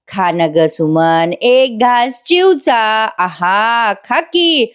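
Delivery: put-on slow, sing-song coaxing, like feeding a child; lightly hammed sweet talk. The speaker spoon-feeding his wife, slow mock coaxing.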